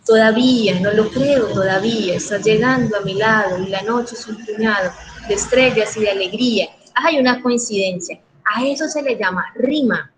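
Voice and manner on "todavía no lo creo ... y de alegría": poem recital. Shown as a demonstration. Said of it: "se le vaya dando como un ritmo al leerlo".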